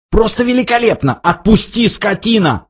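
high, quick strained outburst; choked protest. A narrator's reading. Arthur struggling in the guard's grip, high strained protest. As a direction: protest high and fast, as if throttled. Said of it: "хрипел Артур".

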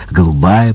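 lightly lisped «голубая», pitched low; slight lisp. A narrator's reading. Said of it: "прошепелявил Фардел".

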